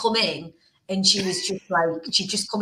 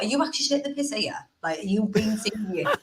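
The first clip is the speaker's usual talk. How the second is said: quick indignant question, starting high; mild mock outrage, rattled off fast then easing; retold fuming; 4 semitones higher than usual. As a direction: replay your fuming disbelief, without shouting. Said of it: "I was just fuming".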